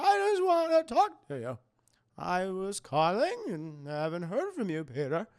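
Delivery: put-on lightly squealed old aunt; Aunt May voice. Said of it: "That's my Aunt May voice".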